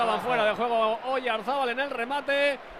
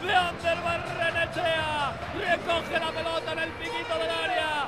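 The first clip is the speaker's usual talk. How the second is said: shouted goal call, full excitement; breakneck goal commentary; 2 semitones higher than usual. Acted. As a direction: call the golazo with fire. Goal commentary after the score.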